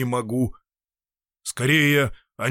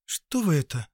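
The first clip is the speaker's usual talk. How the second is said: higher, startled question; surprised; 4 semitones higher than usual. Acted. Anna startled when the doctor kisses her hand, surprised. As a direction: caught off guard. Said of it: "удивилась Анна Даниловна".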